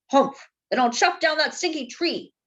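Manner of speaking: a touch of huffy mayor; huffing. Acted. Mayor to rooster, lightly huffing. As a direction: huff out the threat. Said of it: "huffed Don Pepe".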